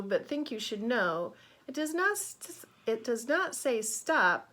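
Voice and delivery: put-on lively, expressive reading to children; rhythmic, emphatic storybook voice; picture-book read-aloud. A narrator's reading. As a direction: read it brightly to a class of kids.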